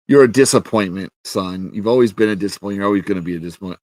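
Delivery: rapid rattled-off put-down; mock fatherly scorn, sped up and dropping away; dismissive paraphrase. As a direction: start firm, then rush through the rest. Voices king's scorn, rattled off.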